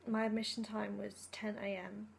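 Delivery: hoarse, whispery sore throat; words scraped out through a raw throat. Real, not acted. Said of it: "I've got a bit of a sore throat".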